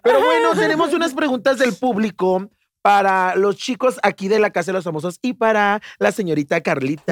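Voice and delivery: mock TV host. Host opens a mock segment for the housemates, hammed-up host voice. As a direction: ham it up like a tacky TV host.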